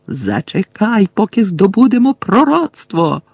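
high, loud, urgent yell; bawling. A narrator's reading. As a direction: holler at an ally to wait. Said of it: "горлав Мелфой".

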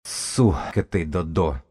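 slow, slurred lisp on "Сука"; pained, mushy-mouthed curse. A narrator's reading. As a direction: lisp it as if through a swollen jaw. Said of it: "прошепелявил он, морщась".

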